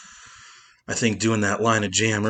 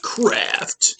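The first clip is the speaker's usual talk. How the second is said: whispering; 12 semitones higher than usual. Real, not acted. Brand name tossed off.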